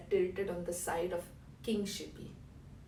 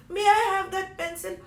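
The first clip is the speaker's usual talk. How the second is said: put-on high, loud, childlike asking; excited little plea; eager request; 11 semitones higher, 10 dB louder than usual. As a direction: ask eagerly, voice pitched right up. Someone begs a pencil from king.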